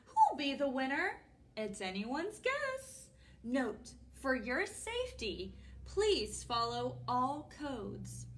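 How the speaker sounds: expressive picture-book narration; reading to children. A narrator's reading. Storytime host reads a pet show flyer to children, expressive narration. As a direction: read the rhyme out, slowing for the warning.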